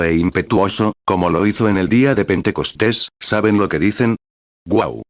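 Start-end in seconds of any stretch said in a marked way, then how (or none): 4.7-5.0 tired wind moan. Retold or imitated. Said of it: "un viento cansado que sopla".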